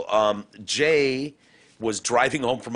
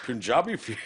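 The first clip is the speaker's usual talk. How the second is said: put-on botched caricature Indian accent; deliberately offensive fake Indian voice; mock Indian accent. Host keeps needling guest, badly faked Indian accent. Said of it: "You just sound like an old Native American".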